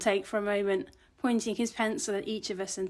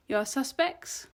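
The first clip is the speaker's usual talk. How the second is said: put-on slow, higher question, lightly Austrian-accented; Bastien; 5 semitones higher, slower than usual. A narrator's reading. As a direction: draw out the question with a hint of Austrian. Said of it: "thick Austrian accent".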